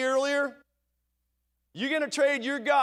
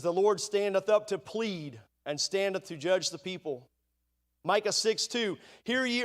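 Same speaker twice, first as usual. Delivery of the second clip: steady, measured King James reading; scripture reading. Acted. Preacher reading Micah to the congregation, solemn. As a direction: lay out the verses solemnly.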